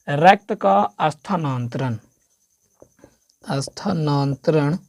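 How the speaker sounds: slow and careful स्थानांतरण; teacher slowing for a hard word; slow dictation. Shown as a demonstration. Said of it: "teacher spells out term".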